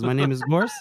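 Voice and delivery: half-attempted squeaky little voice, rising at the end; Gorst's high little voice. Big man introducing himself in a squeaky little voice. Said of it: "strange high little voice".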